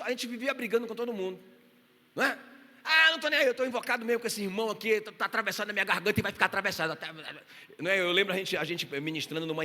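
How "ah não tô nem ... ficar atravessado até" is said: defiant grumble. Pretend. Acted grudge-holding church member.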